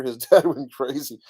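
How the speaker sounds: reading a comment through real laughter; laughing. Real, not acted. Reading Carl's comment to viewers, laughing. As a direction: chuckle breaking into the line. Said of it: "Sorry, I'm laughing".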